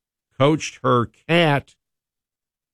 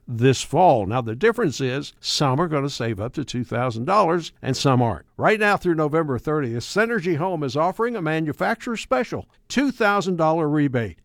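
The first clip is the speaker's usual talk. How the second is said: polished, continuous commercial delivery; radio spot with emphatic, lifted key phrases; radio ad read; 3 semitones higher than usual. Acted. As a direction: pitch the offer in a lively, sales-driven read. Reads a radio ad.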